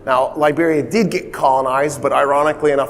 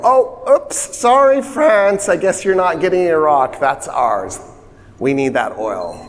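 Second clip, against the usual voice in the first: mock apology; 3 semitones higher than usual. Brits mock apology to France.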